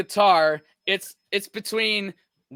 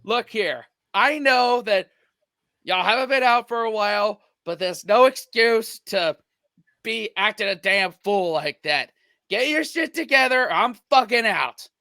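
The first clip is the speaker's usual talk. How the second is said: stern, scolding school bus driver; lightly voiced bus driver telling off; 4 semitones higher than usual. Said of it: "I got into my school bus driver voice".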